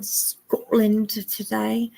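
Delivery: a go at a Scottish "Scotland"; Scottish accent. Pretend. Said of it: "nail down my Scottish accent".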